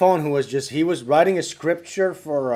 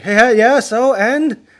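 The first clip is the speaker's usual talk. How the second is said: impatient caller; 7 semitones higher, 9 dB louder, slower than usual. Retold or imitated. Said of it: "And he's like".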